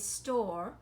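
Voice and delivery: "store" as a syllable by itself; isolated syllable. Shown as a demonstration. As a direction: sound out "store" alone, as the first beat. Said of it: "the first syllable is".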